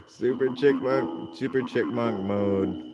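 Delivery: squeaky chipmunk effect. Real, not acted. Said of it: "Super chickmunk mode".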